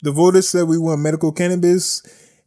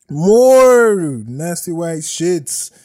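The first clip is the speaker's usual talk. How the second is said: higher, slow, dripping with disgust; slow disgusted drawl; 3 semitones higher, 3 dB louder, much slower than usual. Acted. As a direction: drag it out in mock disgust. Mock announcing next story.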